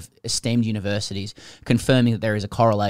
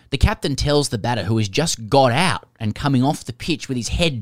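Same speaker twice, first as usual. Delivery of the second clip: animated read-aloud with punched key words; reading a listener's letter. Acted.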